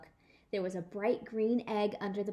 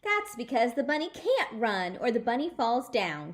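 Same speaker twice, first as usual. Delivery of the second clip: louder, calling across the yard; 2 semitones higher, 5 dB louder than usual. Acted. May calling over to Junie B, loud. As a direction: call it out to be heard. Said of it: "she called".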